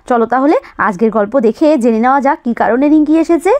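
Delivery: put-on friendly narration for young children; cosy children's storyteller voice; storyteller to kids. A narrator's reading. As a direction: tell it like a story to little ones. Narrator addresses young viewers.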